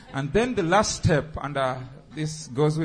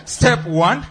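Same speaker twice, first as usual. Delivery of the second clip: loud barked count, higher; soldier voice; 6 semitones higher, 9 dB louder than usual. Shown as a demonstration. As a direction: call it out like a drill sergeant. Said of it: "that chesty soldier voice".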